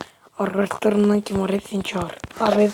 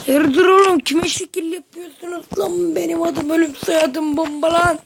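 tough guy; 4 semitones higher than usual. Pretend. Tough-guy boast to opponents.

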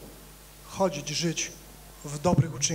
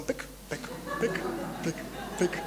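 mechanical popping; 3 semitones lower, 7 dB quieter than usual. Retold or imitated. Imitating a machine stamping out copies.

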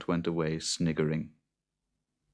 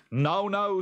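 high, lilting "now, now"; mock-soothing farmer in a story; placating; 13 semitones higher, 3 dB louder than usual. A narrator's reading. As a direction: soothe a raging creature with a raised, singsong pitch. Jude placates the raging boggart.

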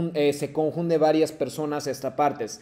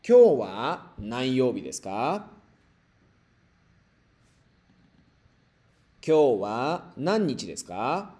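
model for repetition. Shown as a demonstration. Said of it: "繰り返してください".

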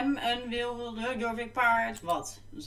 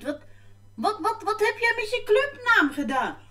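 surprised; 12 semitones higher, 5 dB louder than usual. Real, not acted. Disbelief at a club name.

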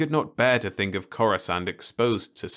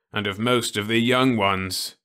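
mournful; 3 semitones higher, 5 dB louder than usual. Acted. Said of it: "he added mournfully".

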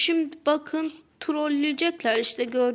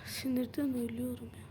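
frustrated groan; 10 dB quieter, faster than usual. Real, not acted. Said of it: "Sinirden konuşamıyorum artık".

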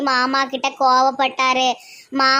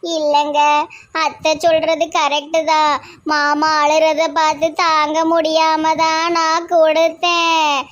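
put-on upset young wife pleading, voice raised and strained; tearful; 3 semitones higher than usual. Daughter-in-law tearfully explaining to her husband why she gave away the jewels. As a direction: close to tears, defending herself. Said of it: "மது, அழாத".

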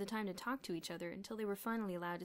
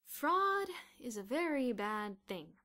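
slow, solemn read-aloud voice; 5 semitones higher, 8 dB louder, slower than usual. A narrator's reading. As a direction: read it out like a dull copybook line. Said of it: "read Bruno aloud".

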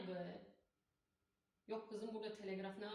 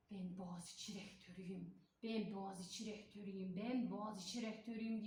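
mimicking the rector; 3 semitones lower than usual. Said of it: "diye saykılıyordu ya".

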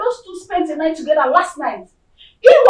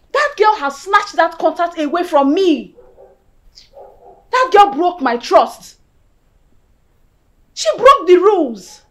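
slow bitter insistence; 3 dB louder, slower than usual. Acted. Betrayed woman insisting slowly.

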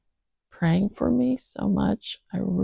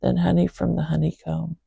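scripture reading. Acted. Reads a psalm aloud.

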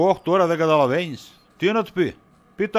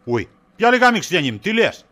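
much higher, louder mock-innocent yelp; feigned surprise; 4 semitones higher, 4 dB louder than usual. Husband fakes surprise at his wife's question, much higher and louder. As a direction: act shocked to dodge the question.

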